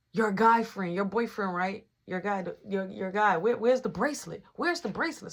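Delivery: needling, repeated taunting questions; messing with her. Retold or imitated. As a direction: retell pestering her, pitch creeping up. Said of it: "I'm steady messing with her".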